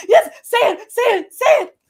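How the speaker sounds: high, loud, giddy chant of encouragement; egging her on, squealing with glee; excited urging. Retold or imitated. Cheering Delisa on to say the answer, giddy and high. Cheering friend on during game.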